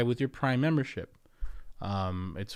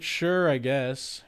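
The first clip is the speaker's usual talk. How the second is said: reluctant; 3 semitones higher, 4 dB louder, much slower than usual. Retold or imitated. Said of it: "And I was like".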